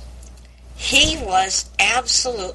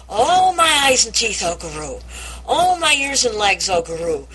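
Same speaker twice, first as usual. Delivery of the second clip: put-on crazy old man voice; 4 semitones higher than usual. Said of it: "I can just hear Haynes doing this".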